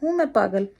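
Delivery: high, bright yes-I-am; playfully owning up to being called crazy; cheerful admission. Retold or imitated. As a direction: own it proudly and gladly. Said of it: "मैं कहती हूँ".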